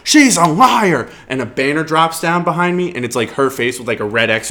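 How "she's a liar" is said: mock accusation. Accusing her at town hall.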